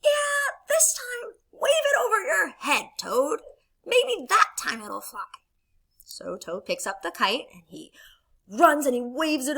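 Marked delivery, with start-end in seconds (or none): 0.0-5.3 high, eager coaching frog; louder, peppy storybook voice; Frog character voice. Acted. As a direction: urge a friend on, pitched up. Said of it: "And Frog says".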